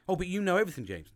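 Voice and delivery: high, loud teasing wife; mock wife voice. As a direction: tease him like his wife. Wife's line voiced by him.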